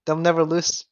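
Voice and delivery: hyped, fast-talking gamer hype; lightly voiced teammate, cocky and loud; Sultan impression. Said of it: "there's my Sultan impression".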